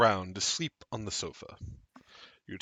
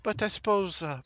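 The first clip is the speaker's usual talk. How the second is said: mysterious woman guest; 4 semitones higher than usual. Acted.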